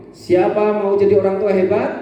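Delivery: rally call. Shown as a demonstration. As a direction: call it out to the crowd. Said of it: "kalau misalnya saya ngomong".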